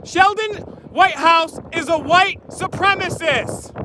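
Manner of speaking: slow, high public call-out; calling from far away. Real, not acted. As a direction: call it out slowly across the street. Protester calling out to a politician.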